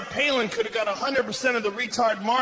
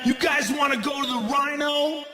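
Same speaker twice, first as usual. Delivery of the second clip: higher call to the group; 6 semitones higher than usual. Acted. Drunk guy proposing a night out, calling out. Acts out himself calling to friends.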